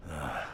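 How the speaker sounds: low, short groan of dismay; frustrated low groan; troubled groan. Acted. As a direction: let out a low, weary "ugh". Dismayed officer groans at the situation.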